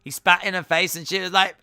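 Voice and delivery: excited telling. Real, not acted. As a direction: rush the story out in disbelief. Retelling the spit spot.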